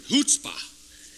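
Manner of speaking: "chutzpah" as a high, loud "HOOTS-pah"; Hebrew chutzpah. Shown as a demonstration. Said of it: "It's a Hebrew word".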